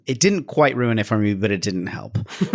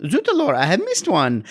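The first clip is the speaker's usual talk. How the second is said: mock French accent; 5 semitones higher than usual. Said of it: "Just kind of anytime".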